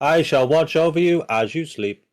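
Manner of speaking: a high voice promising to watch over them; creepy guardian voice. Acted. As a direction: say it like an eerie watcher. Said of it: "Creepy, but okay".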